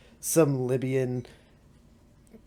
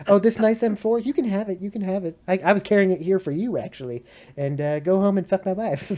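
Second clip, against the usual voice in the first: mock British marine; 6 semitones higher, 5 dB louder than usual. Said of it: "Just be like".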